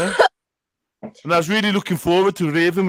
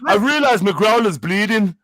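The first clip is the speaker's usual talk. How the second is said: put-on apologetic Northern voice; Manchester accent. Playing a girl excusing herself to people, mock Manchester accent. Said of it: "He's doing a Manchester accent".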